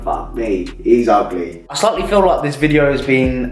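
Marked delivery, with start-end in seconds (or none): 0.0-1.6 mock gym onlooker. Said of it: "People are gonna look at me going".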